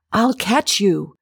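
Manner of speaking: yell. A narrator's reading. Roger on the ground to narrator above, calling up. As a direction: call it up with a touch of urgency. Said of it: "he yelled".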